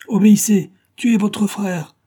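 high, loud villain's order; acted shout, slowing on the last words; commanding shout. A narrator's reading. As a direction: demand obedience forcefully.

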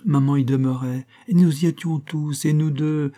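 a distressed sister pressing her case; agitated young woman. Acted. Susan pleading for Michel.

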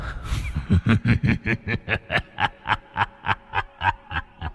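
long, soft eerie ghost laugh fading away; creepy laugh. Acted. Ghost laughing as the mother faints, soft and eerie. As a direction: let the laugh drift off like a spirit. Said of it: "tiếng cười đáng sợ".

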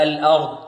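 "الأرض" with a thin, light a after the l; light hamza. Shown as a demonstration. Teacher correcting the heavy version, careful right pronunciation. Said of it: "لا".

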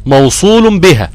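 slow, measured chanting of the verse; tajweed verse recitation; slow recited rule. Shown as a demonstration. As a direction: recite the rule slowly, line by line. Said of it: "reciting tajweed verse rule".

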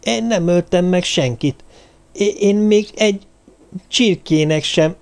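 high, halting, stammered protest; alarmed denial. A narrator's reading. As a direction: stumble over the words in protesting innocence. Rémült Alex tagadja a vádat. (rémülten, akadozva tiltakozva)

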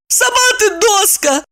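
put-on high childish retort; snapping back. Maya snapping back at teasing Eva, high retort. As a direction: bite back, offended. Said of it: "огрызнулась в ответ Майя".

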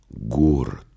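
breathy dream whisper. A narrator's reading. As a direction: breathe the word like a secret. Narrator hushes dreamlike word. (шёпотом)

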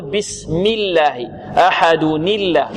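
slow chanted recitation, nun linked; Quranic recitation. Shown as a demonstration. Teacher reciting the verse to show the joined kasra. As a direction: recite slowly, linking أحدن الله. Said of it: "كما نقول".

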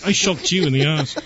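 put-on Australian accent that slips into British; host fakes her accent on air, sounding British; mock Australian accent. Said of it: "That's British, honey".

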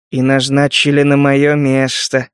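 slow dry smirk; wry, mocking remark. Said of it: "хмыкнул Гектор".

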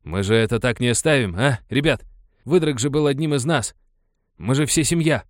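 indignant, rallying call to fellow miners. A narrator's reading. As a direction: stir up your mates, outraged. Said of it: "возмутился горняк".

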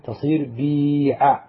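بيع stretched out as bee-ʕa; slow demo. Shown as a demonstration. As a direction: say بيع slowly, leaning on the long ee. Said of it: "رحل الكسرة".

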